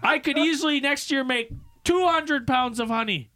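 a hint of a country beekeeper; imitating a hillbilly beekeeper at a town hearing. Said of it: "he goes".

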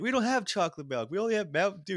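high, loud exasperated mother; tired mom voice. Retold or imitated. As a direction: give in like a weary parent. Mom refusing.

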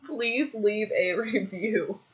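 very slow, soft, word-by-word model; slow, careful prompting. Shown as a demonstration. Podcaster coaches a helper to repeat it, very slow prompting. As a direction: stretch each word so it can be copied. Models phrase again, slower.

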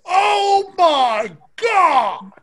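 高く伸ばした驚きの声; high, drawn-out horrified Oh my God; shocked gasp. Real, not acted. Horrified reaction to crocodile story.

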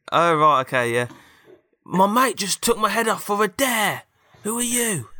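high, loud daft robot; goofy high voice. Acted. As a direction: chatter on like a dim robot. Robot with head knocked off.

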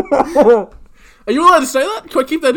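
asking through laughter; laughing disbelief. Real, not acted. Laughing at the joke, asking his cohost if it can stay in.

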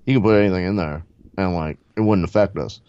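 loose stoner fighter impression; Diaz brothers. Fighter explaining drugs to the host, stoner-bro impression. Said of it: "the Diaz brothers".

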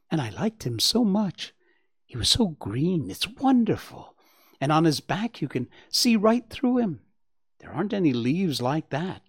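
high, gushing fawn voice; excited young Bambi. Acted. Bambi tells his mother about the grasshopper, excited. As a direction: gush with wonder, pitch swooping up.

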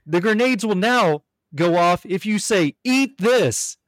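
laughing through a formal update; mock-official apology, breaking into laughs; radio announcement. Darling on the radio updating the guards, half-laughing formal tone. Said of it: "she says".

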